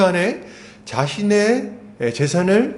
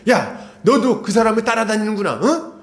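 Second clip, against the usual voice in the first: higher, scolding retold rebuke; mock-indignant scolding of the servants; angry Pharisees; 6 semitones higher than usual. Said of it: "바리새인들이 화가 나잖아요".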